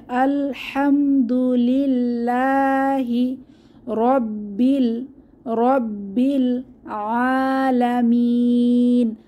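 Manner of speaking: very slow chanted verse; tajweed recitation, held vowels; Quran recitation. Shown as a demonstration. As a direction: draw every long vowel out. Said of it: "তাহলে".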